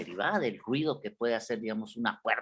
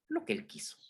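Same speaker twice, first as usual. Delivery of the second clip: whispered aside; 9 dB quieter, faster than usual. Acted. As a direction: drop to a whisper. Teacher whispers the inventor's whim.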